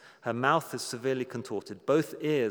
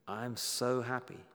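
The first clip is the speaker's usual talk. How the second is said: slow, softer, understated happiness; soft, contented; 6 dB quieter, slower than usual. Retold or imitated. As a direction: voice a dying woman's quiet joy, slowly. Dying woman's answer, read aloud.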